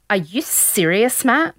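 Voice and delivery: put-on slow, weird South African-tinged accent; indignant quote in a nondescript European accent; imitated vague European accent. Contestant scolding her forgetful date, imitated European accent. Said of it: "Were you just doing an accent?".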